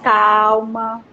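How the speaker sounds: very slow, gentle and soothing; calm self-soothing. Retold or imitated. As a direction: ease the words out slowly, as if calming yourself. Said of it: "ele fez bem assim".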